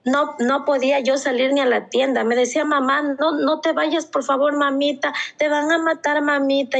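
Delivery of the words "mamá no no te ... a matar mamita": higher, frightened pleading; begging child. Retold or imitated. Mother imitates daughter begging her to stay home, scared. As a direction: beg her not to leave.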